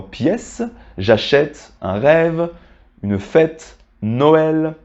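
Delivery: pièce, j'achète, rêve, fête, Noël each with an open è; measured list: pièce, j'achète, rêve, fête, Noël with open è; open è sound. Shown as a demonstration. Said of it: "ça se prononce est".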